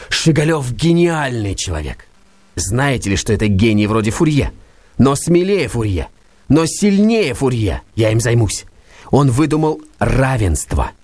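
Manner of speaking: Verkhovensky's rapt admiration; rapt enthusiast. Acted. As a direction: savour each word of praise. Verkhovensky praising Shigalyov.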